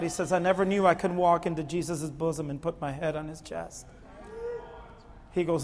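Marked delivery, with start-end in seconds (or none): 0.3-3.9 hushed, low retelling of a moved man; soft and subdued, dry-eyed; retold tearful testimony. Preacher retells a man moved by the message, hushed. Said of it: "he cried".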